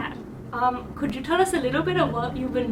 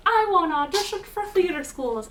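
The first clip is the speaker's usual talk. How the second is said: lightly acted high schooler, pitched higher; eager theater hopeful; 5 semitones higher than usual. Interviewer voicing guest's senior-year self, lightly imitated eager hopeful. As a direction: imitate a keen student a little higher. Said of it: "you're like".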